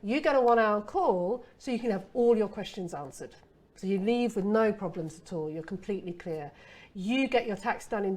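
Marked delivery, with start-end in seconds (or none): 0.0-3.3 upbeat benefit pitch. Shown as a demonstration. Copywriter showing a benefit line, upbeat and selling. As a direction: sell it like a real benefit. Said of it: "What you wanna talk about is the benefits".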